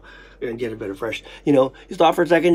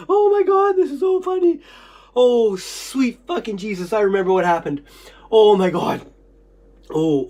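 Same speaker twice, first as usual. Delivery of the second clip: astonished recall. Real, not acted. Speaker suddenly remembering the whole incident, astonished recall. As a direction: cry out in real amazement.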